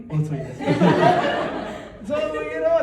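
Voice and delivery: ordinary talk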